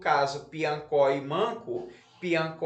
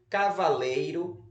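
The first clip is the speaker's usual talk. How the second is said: "cavaleiro" read evenly with a rising list tune; word dictation. Shown as a demonstration. Teacher repeats the word list for pupils, "cavaleiro" in careful dictation. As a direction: dictate "cavaleiro", end lifted. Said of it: "vamos lá repetir as palavras".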